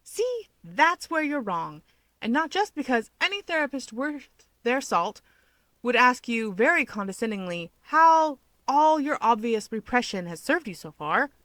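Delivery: taunting. Acted. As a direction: needle him smugly. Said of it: "he taunts".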